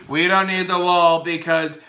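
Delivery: mocking zombie-like monotone; half-embalmed drugged politician. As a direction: drone it like someone sedated. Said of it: "You're fucking half embalmed and you got fucking Xanax".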